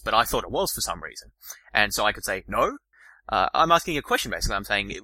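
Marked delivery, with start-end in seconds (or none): 2.5-2.8 puzzled rising no; a questioning no; confused no. Shown as a demonstration. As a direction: doubt what you just heard. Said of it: "in a sort of confused way".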